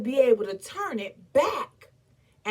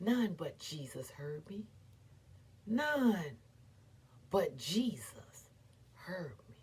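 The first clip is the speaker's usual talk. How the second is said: whispered; 6 semitones lower, 11 dB quieter than usual. Acted. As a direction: let it fall to a whisper. Grief, none but Jesus heard.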